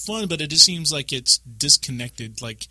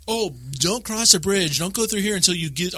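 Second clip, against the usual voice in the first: raised-pitch mock urgency; imitated warning; 6 semitones higher than usual. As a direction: imitate teammates calling out a warning. Acts out teammates' urgent warnings.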